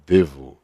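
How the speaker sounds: "devo" isolated as a warning; stress on devo. Shown as a demonstration. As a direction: drop the pitch and press on "devo".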